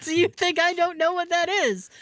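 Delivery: put-on high, offended old lady demanding an answer; indignant grandma.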